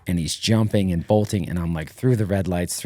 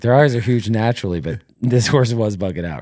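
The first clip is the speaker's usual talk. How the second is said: excited retort; 4 semitones higher, 6 dB louder than usual. Retold or imitated. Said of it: "And I was like".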